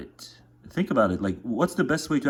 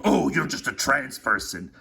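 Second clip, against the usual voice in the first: dismissive mock voice; 4 semitones higher than usual. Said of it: "imagine someone saying".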